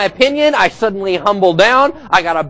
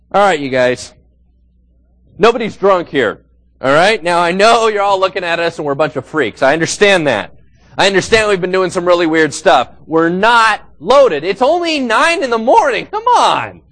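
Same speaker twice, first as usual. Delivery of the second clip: ordinary talk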